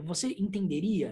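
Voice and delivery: mildly measured, syllable-by-syllable "entenderia". Retold or imitated. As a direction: lightly space out the syllables of "entenderia". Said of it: "se eu pronunciar sílaba a sílaba".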